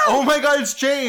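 high, loud fangirl squeal; bubbly sorority girl. Acted. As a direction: gush like a starstruck fan. Skit fans meeting James.

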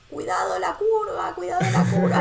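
mother yelling a warning to her son, half-laughing; retold panicked shout. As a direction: shout it at a kid on a bike around the corner. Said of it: "y yo a los gritos".

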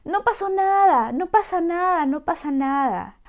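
put-on high, hushing adult shushing a crying child; mock-soothing, brushing off the tears. A parent hushing a crying child, high and dismissive.

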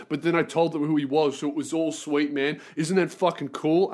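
lightly imitated Kiwi accent; a hint of mock Kiwi bro-talk; Kiwi guy. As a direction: ramble on like a chummy New Zealander, lightly put on. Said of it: "this other Kiwi guy is like".

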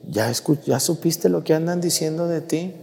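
soft, secretive gossip's question; hushed gossip. Retold or imitated. A gossip asks if you heard the rumor, softly. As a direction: quietly tempt them with the rumor. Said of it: "Cuando te dicen".

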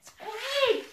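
high-pitched call of a name. Acted. Calling Squeak after the spit hits, high exclamation. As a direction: call out high, without extra volume.

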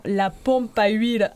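"la pompe à huile" in a Marseille accent, slow; southern French accent. Shown as a demonstration. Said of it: "avec l'accent".

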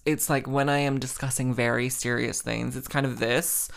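serious-discussion monotone; self-mocking smart person monotone. Shown as a demonstration. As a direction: deliver it as an even, grave drone. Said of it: "a monotone".

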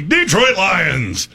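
a touch of tractor pull announcer; hint of monster-truck hype. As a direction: build into a mock event announcer. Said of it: "I wanna say it in the".

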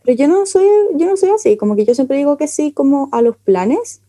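distant, off-mic voice; speaking away from the microphone; far from mic. Real, not acted.

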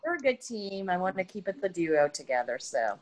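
talking while chewing; words round a bite of food; mouth full. Real, not acted. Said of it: "I'm sorry I'm eating while I'm doing this".

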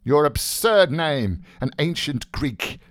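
light, high-pitched teasing; gay teasing. Acted. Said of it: "he said gaily".

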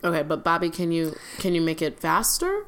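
talking around a cookie; chewing while speaking; mouth full. Real, not acted. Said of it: "I'm eating a cookie".

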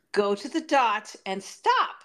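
imitating a teacher coaching tiny kids, rising at the stops; lightly voiced, patient instructions for preschoolers; patient dance teacher. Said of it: "this kind of patience".

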